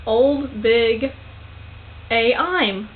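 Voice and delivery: slow, each word in reverse order; careful backwards recital; backwards speech. Shown as a demonstration. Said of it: "I did it".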